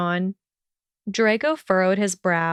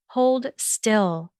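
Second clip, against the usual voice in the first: firm demand; 2 semitones higher than usual. A narrator's reading. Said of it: "she demanded firmly".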